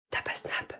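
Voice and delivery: breathy whispered pickup line. Acted. Girl whispering her pickup line to a guy, whisper. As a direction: whisper it like you lost your voice. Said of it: "pourquoi tu chuchotes".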